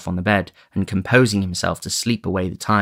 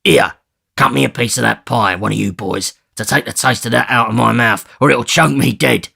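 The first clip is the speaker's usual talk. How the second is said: put-on louder rough command to the boys; gruff order; 3 semitones higher, 4 dB louder than usual. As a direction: bark for the pie.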